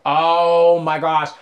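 imitating a fan's thrilled recognition; excited fan. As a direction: gush like a starstruck fan. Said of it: "And she's like".

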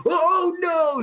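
high, exaggerated fake dismay; mock alarm. Streamer feigning horror at his slip, mock alarm. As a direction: wail it high in pretend horror.

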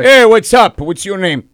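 lightly voiced dad, loud opening greeting; imitated dad. Shown as a demonstration. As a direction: open loudly as the dad in a two-man act. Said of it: "I'll mimic a fucking conversation between them two".

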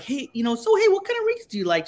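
high, innocent-sounding probe; fake casual. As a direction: fish for information as if offhand. Retold sly casual probing question.

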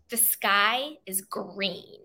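slow, breathy whisper of a silly claim; donkey's whispered claim. Acted. Donkey tells the lion the sky is green, slow whisper. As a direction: hush it out slowly like a donkey.

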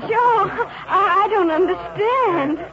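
moved almost to crying; tearful. Acted. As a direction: voice catching with tears. Overwhelmed bride near tears.

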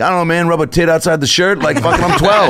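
high, laughing, exasperated; high exasperated protest. Retold or imitated. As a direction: squeak out the excuse. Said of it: "And I'm like".

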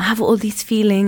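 lightly put-on foreign accent; retold confession in a foreign accent; imitated non-English accent. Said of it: "I love the accent".

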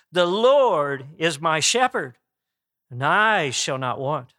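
exclaimed. Acted. David exclaiming his faith to God, ringing out. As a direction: cry it out from the heart. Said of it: "he exclaimed".

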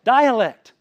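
Dialect shouted, loud and high, falling; emphatic shout. Real, not acted. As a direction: punch out Dialect like a verdict. Preacher answers his own question.

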